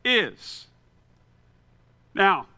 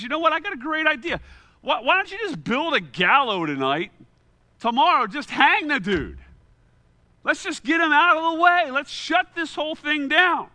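matter-of-fact; 7 semitones higher than usual. Retold or imitated. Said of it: "matter-of-factly".

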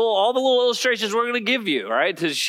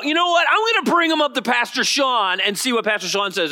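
eager, high-pitched burst; excited church member; 5 semitones higher than usual. Acted. Church member bringing a neighbor up to the pastor, excited. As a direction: act out a thrilled churchgoer with news.

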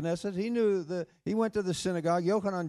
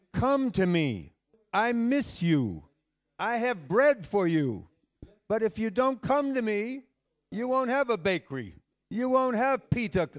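earnest divine appeal; 5 semitones higher, 4 dB louder than usual. Acted. Preacher voices the Lord's plea.

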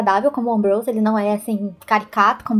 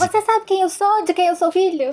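put-on arrogant rich kid; 8 semitones higher than usual. Mocking arrogant rich noble.

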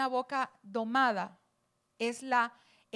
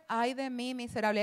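mild lament; 4 dB quieter than usual. Shown as a demonstration. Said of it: "o sea, esto no fue".

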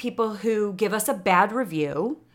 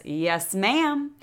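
Southern accent. Shown as a demonstration. Host reading her hat's slogan, Southern accent. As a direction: say it with a Southern lift on ma'am. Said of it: "need to say it like that in a Southern accent".

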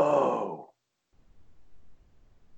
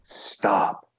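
breathless whisper of disbelief; whispered stop; 3 semitones lower than usual. Real, not acted. Whispering to the guest who did an exorcism. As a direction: hush it out, stunned. Stunned reaction to exorcism news.

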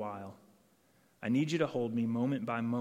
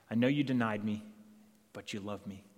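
gentle reassurance; 2 semitones lower than usual. Acted. Jesus reassures Peter.

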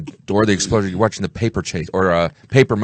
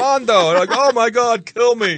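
high, squealing mock panic; 12 semitones higher, slower than usual. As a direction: yelp it like a cornered guy. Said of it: "He's like".

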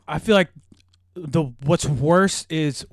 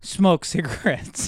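laughing through words; 3 semitones higher, slower than usual. Real, not acted. Retelling boss telling him to smoke.

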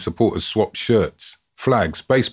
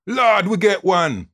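excited cry; 11 semitones higher, slower than usual. A narrator's reading. Fan's cry at the goal.

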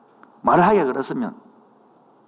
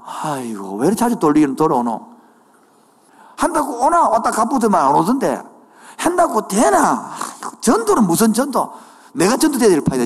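mock grumbling congregant; 2 semitones higher than usual. Voices a congregant grumbling about evangelism.

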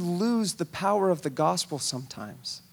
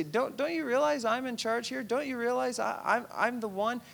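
1 mock arrogant boss; 5 semitones higher than usual. Rulers lording it over.

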